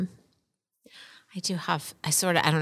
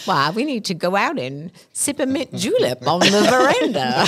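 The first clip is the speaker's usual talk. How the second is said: put-on Southern accent. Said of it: "sounded like Foghorn Leghorn".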